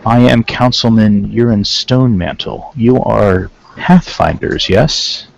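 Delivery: put-on measured councilman with a light Terran accent. Councilman introducing himself to visitors, light Terran accent. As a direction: lightly suggest an invented Terran accent, word by word. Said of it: "he has a strong Terran accent".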